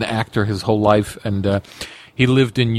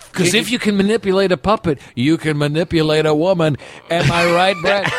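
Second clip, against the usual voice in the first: Trump voice; 5 semitones higher than usual. Pretend. Trump impression continued.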